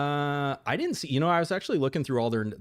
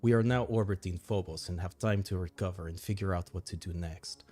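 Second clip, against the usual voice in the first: briefing narration; 2 semitones lower, 4 dB quieter than usual. Acted. Advisor briefs the boss on dwindling supplies, narration. Reads game briefing aloud.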